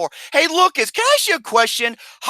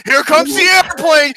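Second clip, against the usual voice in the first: high slow sing-song feeding voice; airplane spoon game; 8 semitones higher, 5 dB louder than usual. Pretend. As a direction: coax like feeding a baby.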